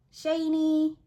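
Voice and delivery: real little thrill; delighted. Real, not acted. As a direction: show off the shine with delight. Showing off a shiny cover.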